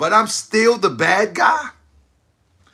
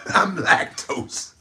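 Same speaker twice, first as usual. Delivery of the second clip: laughing; 3 semitones lower, 3 dB quieter, much slower than usual. Real, not acted. Laughing punchline.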